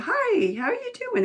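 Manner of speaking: high, loud imitation of friendly strangers; overly friendly greeting. Mall stranger greeting newcomers to town, friendly imitation. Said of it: "totally friendly".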